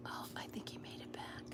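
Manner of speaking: soft whisper. Real, not acted. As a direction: whisper it quietly. Whispering about neighbor.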